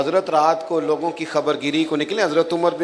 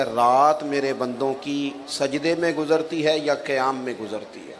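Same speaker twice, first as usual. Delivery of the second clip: reverent recitation. Acted. God's words, recited reverently.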